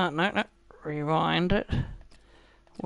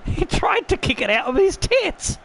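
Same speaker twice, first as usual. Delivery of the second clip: higher, giggling delivery; laughing; 6 semitones higher, slower than usual. Real, not acted. Gamer mocking his defender's kick through laughter. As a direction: say it while cracking up.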